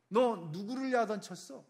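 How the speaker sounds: stern rebuke at normal volume, stress on 너; a hard, pointed question, held back; firm scolding. Acted. God rebuking the king, firm and controlled. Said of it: "사람의 음성처럼 듣는 거예요".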